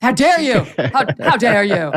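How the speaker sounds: mock outrage. China playing the victim, mock indignant. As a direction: play the wounded victim. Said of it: "playing the victim here".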